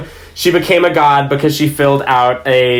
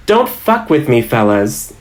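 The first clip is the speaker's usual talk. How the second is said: vaguely threatening. Shown as a demonstration. DM showing the worker's vibe, vaguely threatening warning. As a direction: warn them off in a mock-friendly threat. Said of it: "vaguely threatening".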